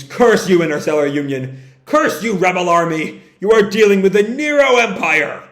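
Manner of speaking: hammed-up villain's curse, rising in bursts; mock scream. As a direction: rail at the rebels as an Imperial commander.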